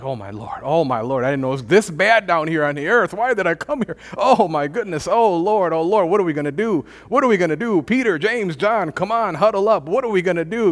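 mock panicked pleading, fast and rising; mock frantic pacing and fretting; frantic Jesus. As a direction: ham up a frantic, flustered Jesus. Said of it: "walking around frantically like".

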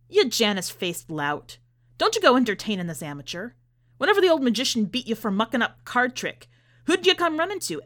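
taunting clown. Acted.

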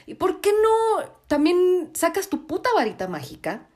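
angry. Real, not acted. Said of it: "Estoy muy enojada".

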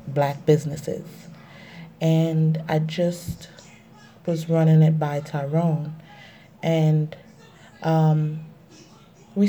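bathroom echo; recorded in an echoey bathroom. Real, not acted. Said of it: "I'm sorry if you can hear me echoing".

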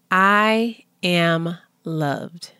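slow, deliberate self-affirmation; slow sincere mantra. Shown as a demonstration. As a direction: say it slowly so the listener repeats it. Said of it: "can you say that with me right now out loud".

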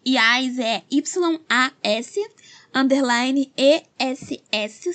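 "Y A S" and "E S S" spelled slowly, letter by letter; spelling it out. Shown as a demonstration. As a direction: say "Y A S, underline E S S" one letter at a time, slowly. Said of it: "Eu vou soletrar pra vocês".

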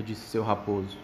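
ordinary delivery

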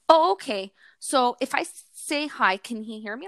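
a hint of an eager little boy; lightly voiced young son. Young son asking his mother about a blind passerby, lightly voiced curious child.

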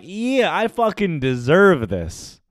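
a hint of squeaky bravado; voice going high. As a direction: try to sound confident but it rises. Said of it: "why is my voice going high".

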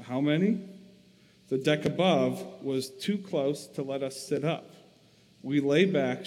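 steady, expressive reading aloud to a congregation; story reading. A narrator's reading. Preacher reading Corrie ten Boom's memoir to the church, expressive narration.

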